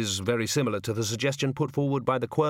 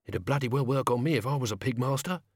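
put-on gruff old servant; 2 semitones higher than usual. The sacks speak.

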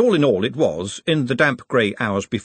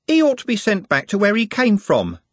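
muttered; 10 semitones higher, 3 dB louder than usual. A narrator's reading. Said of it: "muttered Juliet".

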